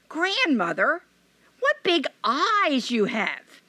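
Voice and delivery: put-on high, slow, wondering girl; a child's uneasy wonder; high hesitant girl's voice; little girl voice. Red Riding Hood speaks.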